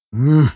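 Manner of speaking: closed-mouth hum, brushing him off; a short "mm" through a full mouth; dismissive mouth-full hum. A narrator's reading. Narrator waves Titok off with a hum. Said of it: "отмахнулся я".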